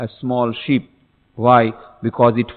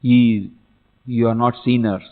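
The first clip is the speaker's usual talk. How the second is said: ordinary delivery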